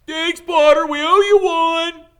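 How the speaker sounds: loud, high sneering jeer; high, shouted mock thanks; mocking cheer. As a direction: crow it at him like a gloating rival. Slytherins jeering at Harry.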